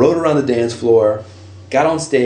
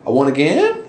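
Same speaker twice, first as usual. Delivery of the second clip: astonished; 7 semitones higher, slower than usual. Retold or imitated. Hearing he won again, high astonished cry. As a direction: react like you can't believe you won. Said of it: "I'm like".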